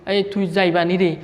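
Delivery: casual Noakhali dialect line; নোয়াখালীর আঞ্চলিক টানে বলা. Shown as a demonstration. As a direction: say it the way Noakhali people talk. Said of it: "তারপরে নোয়াখালীর ভাষা".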